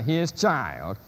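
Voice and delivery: put-on "his" stressed in "his child"; stress on the supplied word. Shown as a demonstration. Lecturer listing supplied pronouns, "his" stressed. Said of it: "just to emphasize the word".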